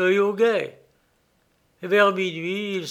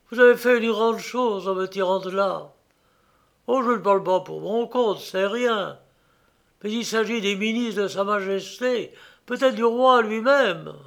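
higher, anxious captive; lightly voiced weary prisoner; prisoner's voice; 3 semitones higher than usual. Meeking thanks Gréville.

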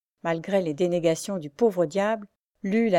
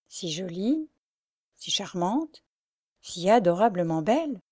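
slow mocking repeat. A narrator's reading. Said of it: "il dit lentement".

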